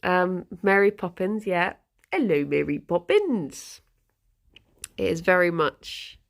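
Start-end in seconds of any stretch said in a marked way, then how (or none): 2.1-3.8 low, slow Cockney greeting; Cockney impression. Greeting Mary Poppins, in mock Cockney. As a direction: imitate an old-film Cockney accent. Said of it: "very much that".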